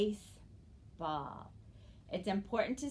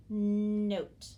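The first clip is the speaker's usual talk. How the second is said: note called out louder as a clear example; loud model word; 7 dB louder than usual. Shown as a demonstration. Teacher calling out note for children to repeat. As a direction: call note out for the class to echo. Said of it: "Say it with me".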